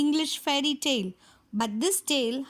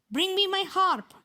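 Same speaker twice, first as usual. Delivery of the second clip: higher, mildly raised demand; giant shouting; 5 semitones higher than usual. Acted. Giant orders his wife, a light mock shout. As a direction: call for the harp like a bossy giant. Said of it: "the giant shouted".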